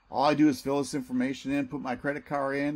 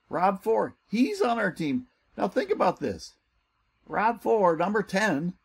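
higher and louder, thrilled to show the leaderboard; excited salesman reading his team's ranks; 5 semitones higher, 5 dB louder than usual. Real, not acted. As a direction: pump up each name like a win. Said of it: "get excited with me".

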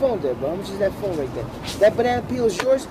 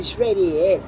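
put-on Brooklyn accent. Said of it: "you wanna hear a Brooklyn accent".

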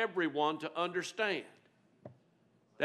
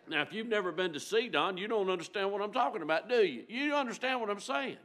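playful teasing; 7 semitones higher, faster than usual. Real, not acted. Teasing about Sidon with laugh.

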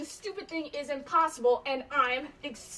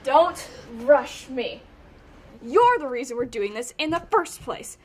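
irritated; 6 dB louder than usual. Acted. Snapping back at partner.

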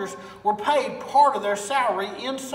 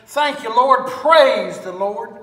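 loud, slow, drawn-out praise; an old lady calling thanks up to the heavens; joyful praise; 8 dB louder, slower than usual. Acted. Old lady to the Lord, loud joyful praise.

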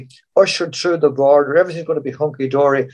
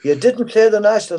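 retold disbelief; 8 semitones higher than usual. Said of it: "And I says".

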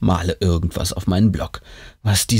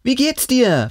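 with a smile; 13 semitones higher, slower than usual. A narrator's reading. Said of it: "fragt Lucy mit einem Lächeln".

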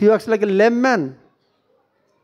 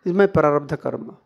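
calm acceptance; 4 semitones lower than usual. Acted. Wise man explaining his hardship to himself, calmly accepting. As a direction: take the trouble calmly, pitched down. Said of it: "how he speaks".

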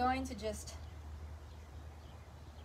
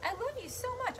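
doggy talk; 7 semitones higher than usual. Acted. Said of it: "I'm talking to the dog right now".

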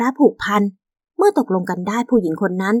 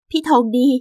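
subdued, hurt "พี่ทองดี"; resigned wife; 3 semitones higher than usual. Acted. Wife about to leave her husband, resigned. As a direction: say the name as a parting address.

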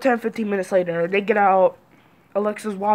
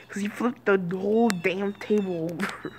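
whispered; 6 dB quieter than usual. Real, not acted. Unvoiced after laughing.

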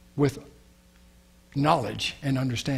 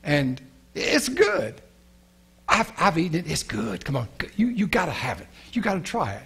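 coaxing, hushed tempter's voice; a sly serpent coaxing Eve to eat; tempting serpent; 3 semitones higher than usual. Acted. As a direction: sell the forbidden fruit in a sly whisper.

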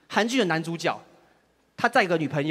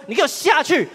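mock tough yell; 6 semitones higher than usual. Acting tough, kicking door open.

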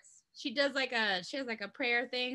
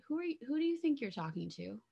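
calm and collected; 3 semitones higher, 5 dB quieter, faster than usual. Shown as a demonstration. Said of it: "imagine if you said that very calm and collected".

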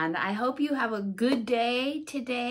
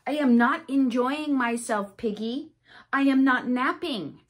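louder, firm and annoyed; upset Gerald; 6 dB louder than usual. Acted. Gerald telling Piggy he won't nap, louder and cross. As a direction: stamp the words out in protest. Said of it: "Gerald is very upset".

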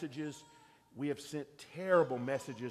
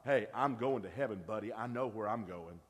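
arrogant boast. Retold or imitated. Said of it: "That feels wrong to me".

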